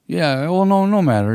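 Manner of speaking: imitating a singer. A singer quoted, pitch jumps.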